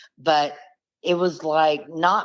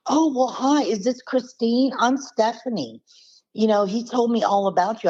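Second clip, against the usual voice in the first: imitated caller in a much higher voice; Stephanie; 8 semitones higher than usual. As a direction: mimic a chatty woman caller, pitched way up. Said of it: "she was like".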